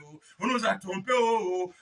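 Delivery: ordinary talk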